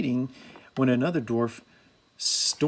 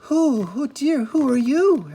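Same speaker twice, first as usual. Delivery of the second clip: high, loud, slow and flustered; startled Snow White; 11 semitones higher, 6 dB louder than usual. A narrator's reading. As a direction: stammer it out, caught off guard. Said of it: "asked Snow White".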